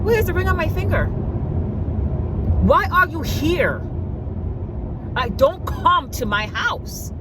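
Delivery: high, sassy lecturing voice; mock lecture to a clingy man; sassy telling-off. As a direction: lay down the law with attitude. Telling him off in retelling.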